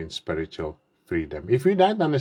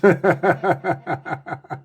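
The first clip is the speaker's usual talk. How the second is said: quick self-amused chuckle; short laugh; 8 semitones higher than usual. Real, not acted. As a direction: laugh at yourself briefly. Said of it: "I'm on my son of ice".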